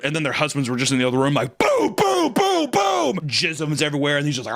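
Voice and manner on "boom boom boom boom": mock husband noises. Husbands in the other room.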